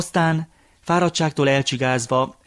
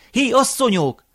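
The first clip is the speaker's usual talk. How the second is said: much higher second hail, falling at the end; louder calling out; 11 semitones higher, 4 dB louder than usual. A narrator's reading. Grandfather hailing the sleeping women once more, higher insistent call. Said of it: "Hangosan szólongatta őket".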